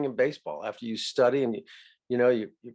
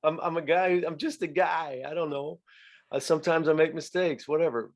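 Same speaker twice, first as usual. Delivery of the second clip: self-mocking chuckle; 4 semitones higher than usual. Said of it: "chuckle about that".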